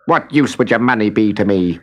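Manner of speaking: snapped. A narrator's reading. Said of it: "snapped the little man".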